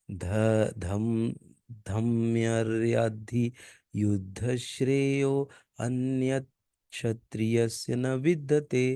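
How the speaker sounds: slow, careful Sanskrit reading; practice recitation. Shown as a demonstration. Teacher repeating the verse to make it easy, slow. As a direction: take each syllable slowly. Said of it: "इसको चार बार पढ़ेंगे एकदम easy हो जाएगा".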